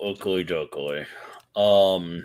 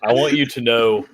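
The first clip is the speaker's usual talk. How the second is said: mock outrage; 3 semitones higher, 5 dB louder than usual. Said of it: "it makes my blood boil".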